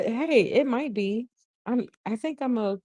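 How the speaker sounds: ordinary delivery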